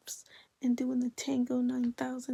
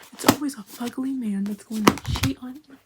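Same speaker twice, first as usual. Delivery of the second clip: emphatic verdict; 9 dB louder than usual. Acted. Reading the friend's verdict.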